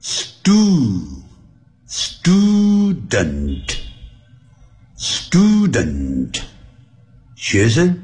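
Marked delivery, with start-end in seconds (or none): 0.0-6.4 very slow student, syllable by syllable; drawn-out American STOO-dent; slow teaching model. Shown as a demonstration. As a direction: stretch out student for learners to repeat. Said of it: "那跟着我来念".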